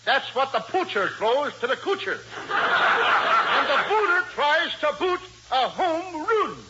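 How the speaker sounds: "poacher" and "coocher" for pitcher and catcher; mock affected vowels. Costello explaining baseball to Abbott, parodying the lady's vowels. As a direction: say "booter" for batter, climbing high on "run".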